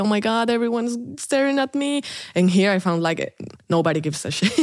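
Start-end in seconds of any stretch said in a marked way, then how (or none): 0.0-2.0 raised pitch, acting out worry over looks; hammed-up little panic; mock self-conscious fretting. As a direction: fret as if everyone is judging you.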